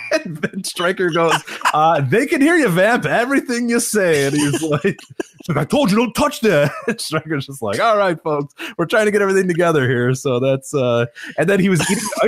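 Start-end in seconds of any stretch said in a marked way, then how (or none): 1.7-4.3 high, careful mock reminder; retold awkward warning. Announcer reminding his partner the mic is live, awkward. Embarrassed co-commentator warns him, retold. 5.5-6.7 higher-pitched mock snapping; retold irritated scolding. Commentator scolding someone off mic during broadcast, mock-irritated. 7.8-10.1 quick announcer patter; retold flustered covering. Commentator covering to viewers for his partner, flustered.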